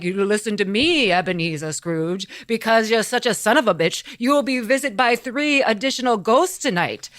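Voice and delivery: lightly spooky ghost warning; mock-ominous pronouncement; hammed-up haunting decree; Marley. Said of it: "I'm the ghost of Marley".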